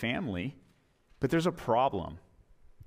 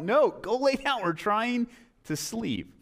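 disdain; 8 semitones higher, slower than usual. Acted. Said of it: "the disdain in this poor old man's voice".

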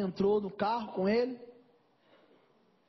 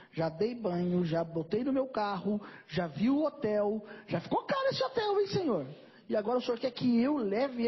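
exasperated complaint. Retold or imitated. Pastor complains to God. (pastor reclamando com Deus, cada vez mais indignado)

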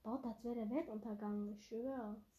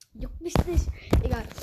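loud defiant; 14 dB louder than usual. Real, not acted. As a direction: shout it to prove you don't care. (trotziger lauter Ausruf)

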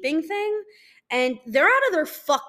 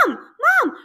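short acted calls for help; mock nightmare cries; imitated scream for mom; 11 semitones higher, 9 dB louder than usual. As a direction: call out as if trying to scream. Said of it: "I still tried to start screaming".

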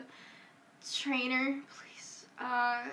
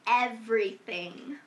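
put-on valley girl voice. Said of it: "my valley girl".

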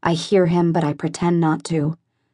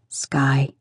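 lower, even man's voice, unaffected; a lightly voiced calm boyfriend; firm, level naming of her; steady voice; 4 semitones lower than usual. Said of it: "His voice is steady and unaffected".

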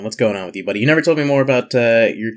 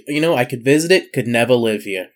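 put-on New York accent, pitched up at first. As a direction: do a quick mock New Yorker. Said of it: "said that with a New York accent".

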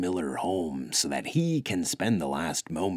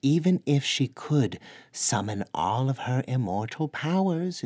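definitive; 4 semitones higher than usual. Acted. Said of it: "Hrodwin pronounced definitively".

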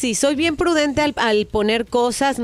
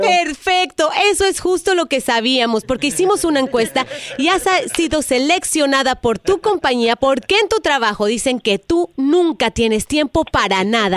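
telemarketer voice. Acted. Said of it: "es una broma telefónica".

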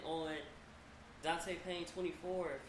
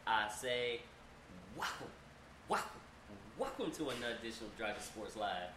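booming showman announcer; big-top ringmaster welcome; 4 semitones lower than usual. Pretend. Podcast intro announcer showman opening.

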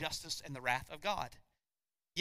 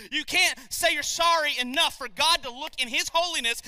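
preaching shout; 8 semitones higher, 7 dB louder than usual. Real, not acted.

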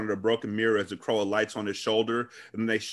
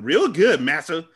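mock servile voice; 3 semitones higher, 5 dB louder than usual. Mocking servile character.

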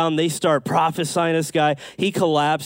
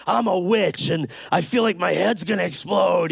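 higher-pitched mock scream, held back in volume; retold scream; 3 semitones higher than usual. Preacher imitating a girl disrupting his meeting, mock scream. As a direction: imitate a girl's outburst, half-heartedly. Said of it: "she stood up and she screamed".

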